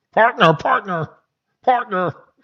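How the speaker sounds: high-pitched cartoon frog puppet voice. Mocking people who keep saying partner; Kermit the Frog voice. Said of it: "they sound like Kermit the Frog".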